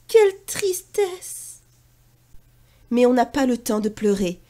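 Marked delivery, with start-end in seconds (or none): 0.1-1.4 high, slow mourning, lightly sobbed; mock sob. Pierre mourns Sonia, high, slow and mildly tearful. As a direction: grieve for the duck. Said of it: "sanglote-t-il".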